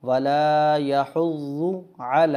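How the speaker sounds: measured tajweed recitation for learners; Quran recitation. Shown as a demonstration. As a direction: recite it clearly with held long vowels. Slow Quran recitation demo.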